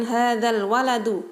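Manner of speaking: hadzal waladu with the lam sounded; careful Arabic reading; al joined into waladu. Shown as a demonstration. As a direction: link hadzal straight into waladu. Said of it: "perhatikan cara bacanya".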